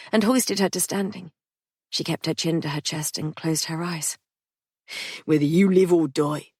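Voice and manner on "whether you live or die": measured menace; Patrick warning Polly. Acted.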